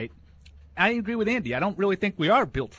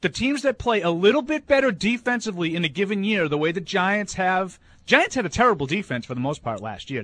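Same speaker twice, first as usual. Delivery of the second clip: raised, fired-up voice; heated ranting; 3 semitones higher than usual. Real, not acted. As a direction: rant like you're arguing. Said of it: "Who's he yelling at?".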